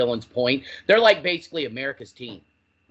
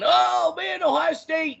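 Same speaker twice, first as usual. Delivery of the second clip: high, shouted fan rant; mocking rival fan; 3 dB louder, slower than usual. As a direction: belt it out like a smug fan.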